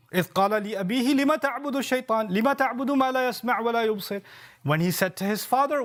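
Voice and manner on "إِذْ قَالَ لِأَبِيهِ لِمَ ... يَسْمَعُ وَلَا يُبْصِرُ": measured Arabic recitation of scripture; chanted Quranic Arabic. Acted. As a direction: recite the verse with tajwid cadence. Quotes Quran verse in Arabic.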